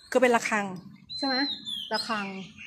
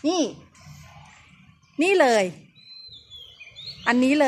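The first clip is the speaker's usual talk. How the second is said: higher and louder, pointing something out; excited find; 5 semitones higher, 4 dB louder than usual. Real, not acted. Guide spots the cannon-hit boundary stone, excited call. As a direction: call out the spot you just found.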